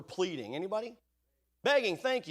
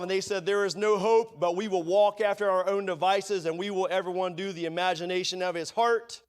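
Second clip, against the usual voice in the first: steady declaiming, louder at the Lord's words; scripture reading; 3 dB louder than usual. Acted. Preacher reading Jeremiah to the congregation, declaiming. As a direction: read it as God's verdict.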